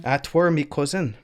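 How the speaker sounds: rural dialect, badly faked; very bad down-country accent. Denna faking the local dialect for strangers, very bad country accent. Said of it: "says Denna in a very bad version of it".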